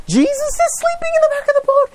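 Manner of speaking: high, frantic cry of panic; panicked cry. Acted. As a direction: shriek it like men sure they'll drown. Panicked disciples remember Jesus.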